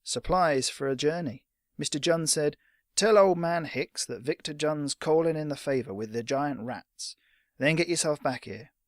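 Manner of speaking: a mild imitation of a rough old fighter; imitating Victor. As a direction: drop into the gruff veteran's voice. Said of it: "his voice dropping into the old fighter's rough accent".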